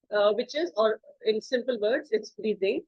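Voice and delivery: normal talking voice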